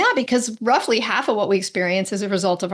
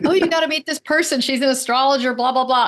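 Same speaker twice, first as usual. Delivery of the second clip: mock gushing friend; 5 semitones higher than usual. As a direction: gush like a fan selling an astrologer. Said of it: "people are like".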